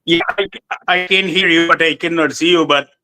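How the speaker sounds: choppy audio dropping out; cutting in and out. Real, not acted. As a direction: voice breaking up on a bad connection. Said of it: "cutting in and out".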